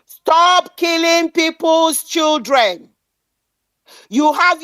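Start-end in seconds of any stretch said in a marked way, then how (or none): 0.0-2.9 slow, deliberate stress on every word; a slow, pressing appeal. Real, not acted. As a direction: lean hard on each word of the demand. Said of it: "I stressed the word".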